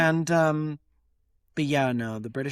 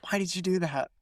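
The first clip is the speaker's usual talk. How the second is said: restrained mock self-reproach, softer; self-scolding; 3 semitones higher, 5 dB quieter, faster than usual. Speaker turning away after imitating a stranger, self-scolding. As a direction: scold yourself under control first. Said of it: "turn around and I'll be like".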